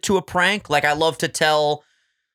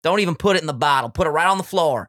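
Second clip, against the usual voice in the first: put-on Southern accent. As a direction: play a dip-spitting good old Southern boy. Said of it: "The Southern accent to me is the best one".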